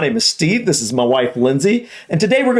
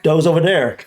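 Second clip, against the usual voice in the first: light attempt at North Dublin, D for TH; North Dublin accent. Shown as a demonstration. Husband trying the accent for his wife, tentative North Dublin. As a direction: try a North Dublin "doze over dere". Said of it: "North Dublin accent".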